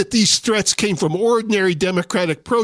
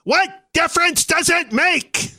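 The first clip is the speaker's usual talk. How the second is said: much higher, cackling mock of Hillary Clinton; shrill parody squawk of the quote; sarcastic host mimics Hillary Clinton's cackle; 9 semitones higher than usual. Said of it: "in that cackling voice of hers".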